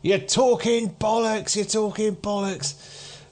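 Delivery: high, slow jeer; dismissive heckler. Acted. Audience members waving the man away, dismissive heckling. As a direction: wave off a street ranter in a high voice. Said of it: "waving their hands at him going".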